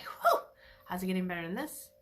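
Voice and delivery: a laughing "Whew" into a quick delighted question. Acted. Acting out finding a dime on the floor, delighted and laughing. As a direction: act thrilled at the lucky find.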